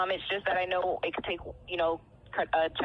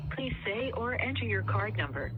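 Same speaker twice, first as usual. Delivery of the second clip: phone menu voice; 4 semitones higher, 4 dB quieter than usual. Real, not acted. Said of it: "transferred over to voice line".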